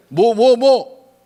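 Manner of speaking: very slow, drawn-out what-what; husband answers his wife, slow and drawn out; lazy husband reply. Acted. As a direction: stretch each word like an indulgent husband.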